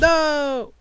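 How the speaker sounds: high, drawn-out shout of dismay; long loud wail of no; loud protest. Real, not acted. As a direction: yell it out in protest at the game. Game restarts against player's wishes.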